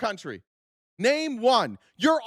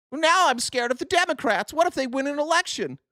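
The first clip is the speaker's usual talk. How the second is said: higher, hammed-up worry; mock scared chatter; 4 semitones higher than usual. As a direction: imitate a voter fretting in mock fear. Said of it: "exactly what you losers sound like in the chat".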